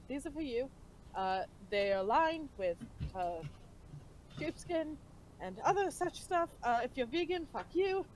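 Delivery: put-on a light, half-hearted British accent; bad British accent. Bard handing clothes to party mate, bad British accent. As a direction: put on a clumsy British accent, barely there. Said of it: "is that your British accent impersonation".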